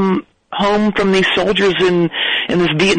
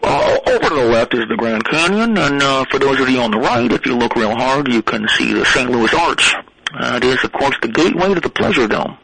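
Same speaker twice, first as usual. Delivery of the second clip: pilot announcement; 3 semitones lower than usual. Acted. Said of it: "It's Talk Like a Pilot Day".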